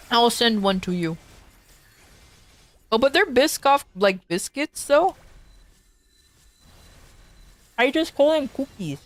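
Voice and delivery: chewing while talking; mouth full. Real, not acted. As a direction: talk through a mouthful of cookie. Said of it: "I'm eating with my mouth full".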